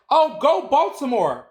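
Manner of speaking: high, slow mock cheer for Baltimore; joking cheer. At the barbershop, jokingly cheering for Baltimore, high and slow. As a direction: tease the barbers with a lifted, drawn-out cheer. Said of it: "jokingly at my barbershop".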